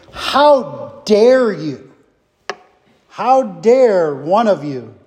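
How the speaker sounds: slow, heavy stress on "dare", outraged; emphatic dare. Retold or imitated. Teacher voicing Paul's outrage at the church, slow stress on "dare". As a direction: lean hard on "dare", drawn out slowly. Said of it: "This dare is, is emphatic".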